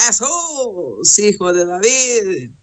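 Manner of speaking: drawn-out plea, mildly acted; a blind man's clamour, half-voiced; crying out for mercy. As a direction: stretch out the name, then ease off. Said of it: "estaba gritando, estaba clamando".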